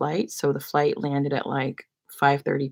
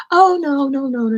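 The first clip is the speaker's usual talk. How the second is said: higher, louder quick no, no; mock flustered refusal; 9 semitones higher, 9 dB louder than usual. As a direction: fend off the offer in a burst. Agent refusing coffee offer.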